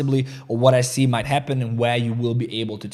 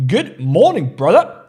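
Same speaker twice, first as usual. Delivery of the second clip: loud greeting; 5 semitones higher, 8 dB louder, slower than usual. Real, not acted. Greets a viewer from Scotland.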